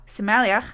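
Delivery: Somaliach, stress on the second syllable; language name. Shown as a demonstration. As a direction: pronounce Somaliach as a native speaker would. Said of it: "is my native language".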